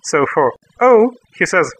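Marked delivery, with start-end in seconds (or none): 0.8-1.1 surprised oh. Retold or imitated. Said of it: "Phil did not expect that he will be invited".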